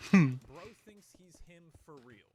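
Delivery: chuckling while mocking the line; laughing. Real, not acted.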